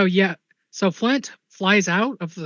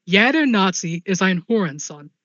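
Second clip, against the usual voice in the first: put-on Swiss German accent. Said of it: "In a Swiss German accent, booming voice".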